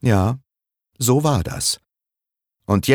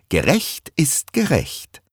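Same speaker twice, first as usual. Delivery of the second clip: smug, teasing verdict at her husband; wife gloating at husband, „Gerecht ist gerecht“ with smug satisfaction; 9 semitones higher than usual. Acted. Wife gloating to husband, smug „Gerecht ist gerecht“. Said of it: "Mit Schadenfreude".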